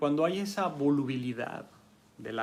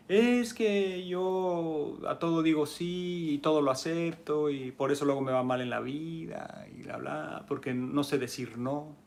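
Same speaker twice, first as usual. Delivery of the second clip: whiny pushover; 3 semitones higher than usual. Acted. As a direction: complain like someone who can't refuse. Voicing person who can't say no.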